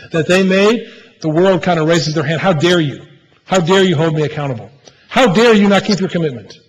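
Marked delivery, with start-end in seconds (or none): 2.4-6.6 indignant. Retold or imitated. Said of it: "is one way we could say it".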